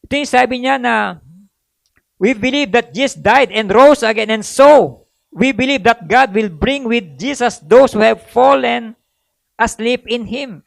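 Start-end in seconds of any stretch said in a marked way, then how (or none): 2.2-10.6 measured pulpit reading of scripture; solemn scripture reading. Acted. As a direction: read the verse like it's holy. Reads scripture aloud.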